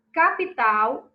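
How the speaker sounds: capital slow and loud, leaning on final TAL; teacher's emphatic capital, last syllable stressed. Shown as a demonstration. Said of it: "o tal é a sílaba tônica".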